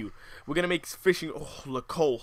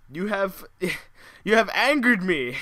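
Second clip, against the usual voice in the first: half-laughing, louder fake warning; mock villain line broken by a laugh; laughing mock threat; 4 semitones higher, 5 dB louder than usual. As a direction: giggle through the threat.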